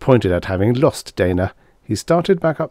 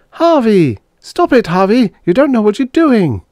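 high, much louder frantic scream; 14 semitones higher, 7 dB louder than usual. Acted. Dana screaming at Harvey as he wrenches her device away. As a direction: scream at him to stop. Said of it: "she screamed".

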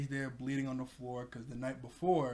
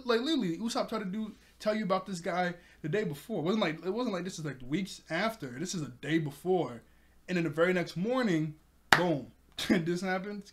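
excited rant; 4 semitones higher, 3 dB louder than usual. Real, not acted. Ranting at Kaya's disbelief.

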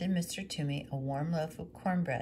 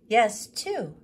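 higher and louder agreement; widow's voice; 6 semitones higher, 10 dB louder than usual. Acted. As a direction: agree warmly with your son. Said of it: "said the widow".

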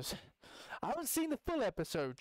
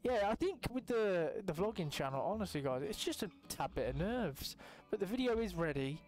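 put-on Scottish accent; 2 semitones higher than usual. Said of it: "I did the Scottish accent again".

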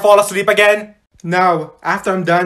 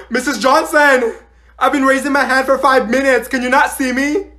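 higher-pitched impatient call; exasperated student; 4 semitones higher than usual. Acted. Student ignored with hand raised, high exasperated call. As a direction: demand attention, fed up with waiting.

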